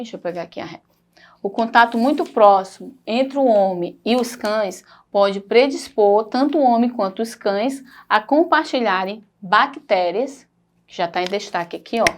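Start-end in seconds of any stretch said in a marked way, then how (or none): 1.4-10.5 slow, careful reading of a passage; reading aloud. Shown as a demonstration. Teacher reading a text aloud to students, slow and careful. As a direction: read the text out slowly for the class.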